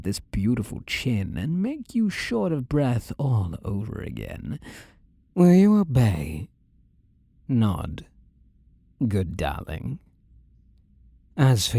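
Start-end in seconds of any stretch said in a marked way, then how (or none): 5.3-6.5 commanding. Acted. Demands obedience from captive.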